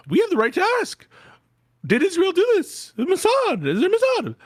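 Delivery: hammed-up high Tucker voice asking leading questions; squeaky mocking impression.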